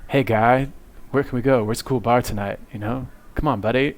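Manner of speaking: imitating a pal's cartoonish Canadian accent; light mock Canadian accent, punchy greeting; Terrence and Phillip. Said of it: "He would actually talk like Terrence Phillip".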